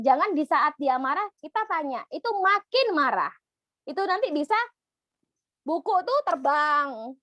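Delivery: ordinary talk, nothing marked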